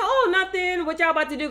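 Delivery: high, breezy mock guy voice; imitating the guy dodging the hint; mock oblivious guy. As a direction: play it innocent and clueless. Guy voiced, playing dumb.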